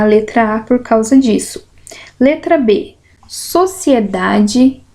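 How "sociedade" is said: slow, syllables pulled apart: so-ci-e-da-de. Shown as a demonstration. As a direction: spell out sociedade slowly, beat by beat. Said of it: "Como que eu digo aqui?".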